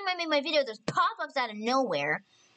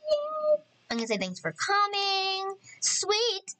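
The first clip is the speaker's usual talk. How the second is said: high-pitched, happy exclaiming; excited cheer; 9 semitones higher, slower than usual. Real, not acted. Player cheering on her Sim's romance, excited. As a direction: cheer with a squeaky high lift.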